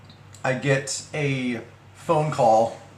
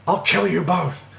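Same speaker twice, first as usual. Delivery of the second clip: higher, strained mock yell; mock yelled threat; 6 semitones higher than usual. Caller threatens both while she laughs, imitated high yell.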